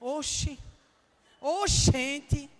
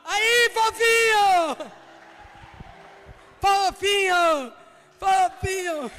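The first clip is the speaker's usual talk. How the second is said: slow, loud, high call across the church; a wife shouting slowly for her husband fofinho across the church; 3 semitones higher, 7 dB louder, much slower than usual. Real, not acted.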